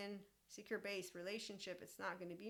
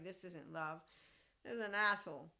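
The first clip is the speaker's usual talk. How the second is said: louder, punchy, certain; emphatic inner verdict; 5 dB louder than usual. Retold or imitated. To the tall boy who called her short, a loud firm inner verdict. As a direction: bang it out like a private verdict. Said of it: "And in my head".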